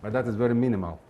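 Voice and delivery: muffled behind a face mask; speaking through a face mask. Real, not acted. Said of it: "I'm speaking through the mask".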